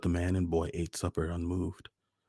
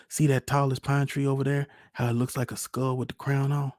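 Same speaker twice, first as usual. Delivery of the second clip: put-on high, eager-to-show little boy; child's voice; 9 semitones higher, 5 dB louder than usual. A narrator's reading. Young son shows Pa a tree in the woodlot, childlike. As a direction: point it out to Pa as a small boy, high-pitched.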